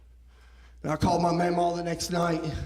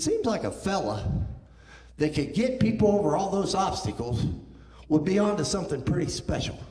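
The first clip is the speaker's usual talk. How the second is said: calm voice; 4 semitones higher than usual. Retold or imitated. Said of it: "in the calmest voice".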